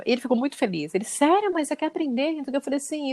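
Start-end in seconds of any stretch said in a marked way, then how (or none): 1.0-2.3 surprised son. Retold or imitated. Son surprised by mom's offer.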